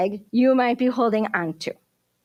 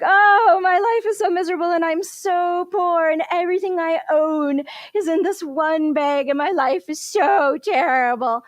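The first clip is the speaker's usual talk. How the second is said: wailing lament; 4 semitones higher than usual. Acted. Nasruddin moaning about his miserable life by the road, high wailing. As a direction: wail it like a fool mourning his fate. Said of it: "and he's like".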